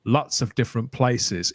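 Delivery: lightly imitated hard-to-place accent, low and slow; low-pitched touch of a roving Highlander's mixed accent; chopped mixed accent. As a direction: answer slowly in a hint of a chopped, mixed-up accent. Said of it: "in that kind of chopped accent".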